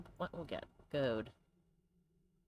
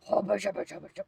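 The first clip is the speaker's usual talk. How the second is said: put-on dog baby talk. Shown as a demonstration. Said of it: "just go".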